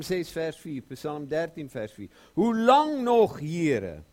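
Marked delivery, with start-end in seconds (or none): 2.3-4.0 lament. Acted. Psalmist's lament quoted.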